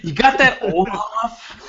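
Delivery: slow teasing question; playful mock jab. Teasing echo of wife quote.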